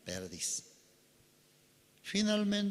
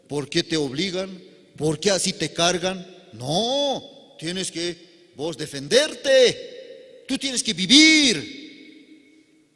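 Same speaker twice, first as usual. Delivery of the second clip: tempting Satan voice; 5 semitones higher, 6 dB louder, slower than usual. Acted. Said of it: "cómo nos hace entender Satanás".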